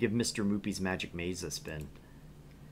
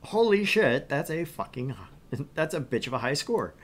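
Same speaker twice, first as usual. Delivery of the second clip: crude guy voice; 4 semitones higher than usual. Retold or imitated. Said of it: "as this other guy would say".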